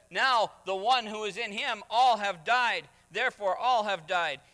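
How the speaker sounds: forceful preaching. Acted. Preacher quoting Paul to congregation, forceful. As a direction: proclaim the scripture boldly.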